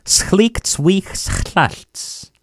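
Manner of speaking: Schlicht, wichs, chlalt each set apart with a pause; word by word. Shown as a demonstration. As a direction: give each piece on its own. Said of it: "For the last time".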